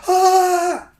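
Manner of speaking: high squeal of panic, imitating; imitated panicked yelp. Date panicking on the bike, high yelp. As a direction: yelp like she lost control. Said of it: "freaks out and goes".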